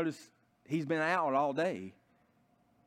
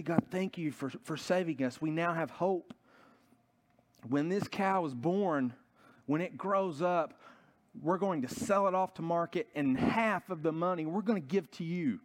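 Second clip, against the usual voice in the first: mildly grateful, slightly raised pitch; acted prayer of relief and gratitude; thankful prayer; 4 semitones higher than usual. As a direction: give thanks to God, higher voice. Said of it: "so thankful and grateful to God".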